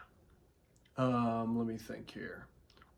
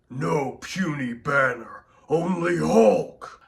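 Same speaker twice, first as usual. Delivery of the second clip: slow, loud lightly voiced brute; Hulk voice; 4 dB louder, slower than usual. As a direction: roar it like a proud giant. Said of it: "he says".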